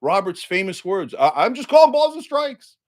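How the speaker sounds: hammed-up self-righteous justice; mocking a justice. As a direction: parrot the pious slogan sarcastically. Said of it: "they all go up there and they go".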